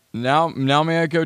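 ordinary delivery

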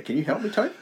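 very high put-on pleading voice; mock plea. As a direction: beg in a silly squeaky voice.

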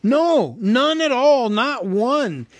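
high, loud hurried denial; panicked hobbit. A narrator's reading. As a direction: take it back in a panic. Bilbo hastily corrects.

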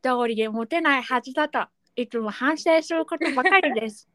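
lightly voiced toothless letter writer; a hint of a gap-toothed speaker; toothless reader. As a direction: read it as if a few teeth are missing. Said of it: "歯がないイメージで読んでみました".

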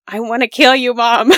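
imitating a child screaming at mom; child's tantrum yell. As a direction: yell it like a raging kid. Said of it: "when he's throwing a tantrum".

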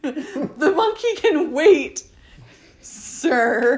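lofty, slow "sir"; mock formal. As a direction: dismiss him like a butler.

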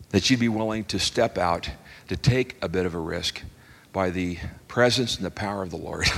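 earnest closing prayer. Acted.

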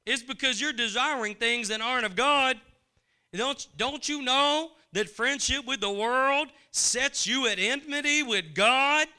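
high, loud, insistent preaching; rising pulpit fervor, pressing each question harder; fiery preaching rebuke. Acted. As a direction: hammer the questions home at the congregation. Preacher voicing scripture's rebuke.

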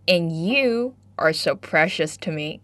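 slow, tender, hammed-up sweet talk; mock cheesy love line. Teacher jokes to students with a corny love line, mock tender. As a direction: play it like a corny pickup line, slowly. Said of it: "不知道这算不算是土味情话呢".

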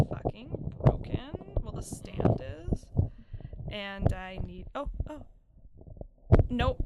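breathy laugh through the words; laughing while speaking. Real, not acted. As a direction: talk through giggles. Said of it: "This is the worst".

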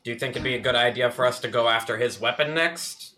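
a touch of a theatrical magician. Acted. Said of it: "In the magician's voice".

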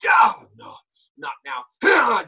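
high loud mock yell; mock shout. Shown as a demonstration. Voice actor demonstrating a yell in the booth, high and loud. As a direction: throw the shout out big and high.

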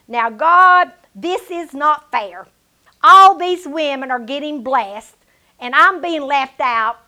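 emphatic protest, punching the first words; retold complaint to God. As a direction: plead your unfair case to God. Acting out her complaint to God.

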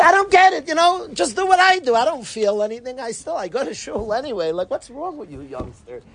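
mock parent voice. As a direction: play the frustrated father who just goes through the motions. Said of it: "Because you say".

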